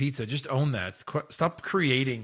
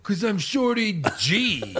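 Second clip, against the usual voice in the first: laughing; 5 semitones higher, slower than usual. Acted. Laughing in role.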